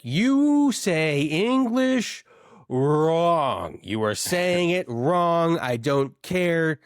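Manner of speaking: high, loud, slow indignant rant; You say English wrong stretched out high; exasperated scolding. Retold or imitated. Telling a Midwest friend she speaks wrong, slow loud scold. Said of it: "And I was like".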